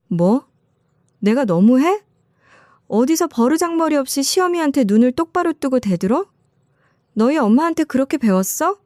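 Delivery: furious mother-in-law shout. Retold or imitated. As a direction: snap back at her, pitch rising with rage. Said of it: "소리를 질러버렸습니다". (화가 폭발해 며느리에게 높고 크게 소리치는 시어머니)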